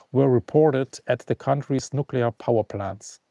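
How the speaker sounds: steady scripted news read, like a presenter; news-style read. Acted. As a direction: read the update like a bulletin. Reads prepared news update.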